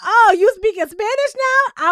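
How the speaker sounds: high, slow, skeptical drawl; mock side-eye. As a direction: imitate Hannah judging him. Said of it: "Hannah looked at him like".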